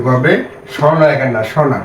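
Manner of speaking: slowed, chunk by chunk; slow syllable reading. Shown as a demonstration. Teacher guiding students through syllables, slowly. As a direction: read the syllables out deliberately. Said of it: "তাহলে গ বয়কার বে".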